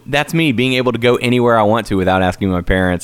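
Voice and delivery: put-on high smug brag to kids; gloating at teenage kids over the mic; smug taunt. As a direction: rub it in their faces. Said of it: "I'm like".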